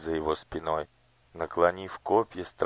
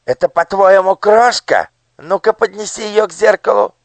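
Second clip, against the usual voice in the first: high, loud, wry squeak; sneering minister; 14 semitones higher, 16 dB louder than usual. A narrator's reading. Nushrok sneers at the lying people. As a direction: curl your lip and squeal.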